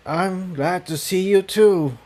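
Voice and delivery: a mildly bemused reassurance; gently puzzled amusement. A narrator's reading. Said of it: "obviously bemused".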